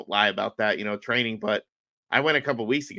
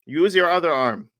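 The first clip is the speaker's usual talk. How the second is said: raised, slightly higher instruction; retold coaching call; 5 semitones higher, 4 dB louder than usual. Coach instructing a student on the mat, retold coaching call.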